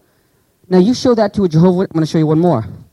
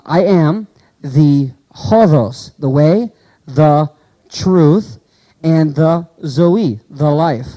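slow scripture quote; much slower than usual. Shown as a demonstration. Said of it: "Ego and me".

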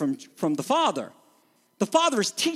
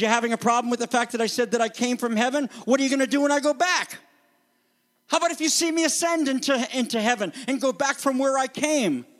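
challenging; 3 semitones higher, faster than usual. Retold or imitated. Jesus challenging the crowd.

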